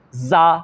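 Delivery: زا said with a plain z sound in place of ذ; mispronounced ذال as زا; wrong pronunciation demo. Shown as a demonstration. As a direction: voice زا as the common mistake, buzzing z. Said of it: "ذال کے بجائے".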